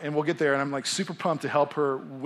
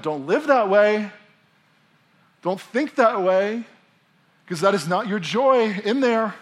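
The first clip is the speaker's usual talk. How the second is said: a hint of Jesus pleading. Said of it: "And Jesus is saying in this moment".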